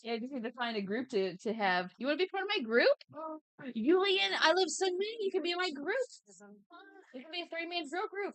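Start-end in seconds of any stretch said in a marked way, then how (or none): 2.0-8.3 excited. Real, not acted. Inviting friends into her group.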